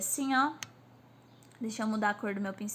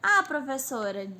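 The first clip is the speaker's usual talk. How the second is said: higher-pitched pupil voice calling the teacher; imitated pupil; 5 semitones higher, 3 dB louder than usual. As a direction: play a student reporting to teacher.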